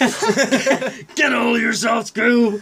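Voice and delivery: cartoon voice. Quotes the trailer line back.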